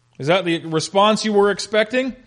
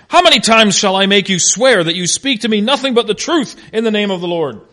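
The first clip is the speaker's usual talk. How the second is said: exasperated; 4 semitones higher, 6 dB louder than usual. Acted. Acts exasperated king demanding truth.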